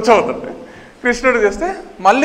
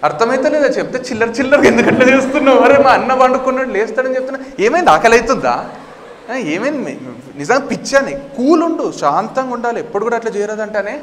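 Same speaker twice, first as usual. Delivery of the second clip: raised, insistent telling-off; exasperated scolding; 4 semitones higher than usual. Acted. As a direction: scold a misbehaving monster fearlessly. Krishna scolds the roaring monster.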